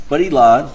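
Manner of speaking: "he" hit high and loud; stress on he. Acted. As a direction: punch "But he lied" with "he" rising. Punching the point to jury.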